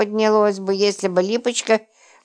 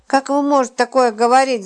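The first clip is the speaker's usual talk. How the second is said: howling outburst; 5 semitones higher than usual. Acted. Roman howling at Lipochka's mockery, anguished wail. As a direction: howl the question in disbelief. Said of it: "взвыл Роман".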